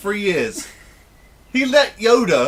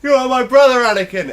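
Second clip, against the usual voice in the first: impassioned speech; 6 semitones higher, 7 dB louder than usual. Retold or imitated. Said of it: "Instead of doing the speech at the end".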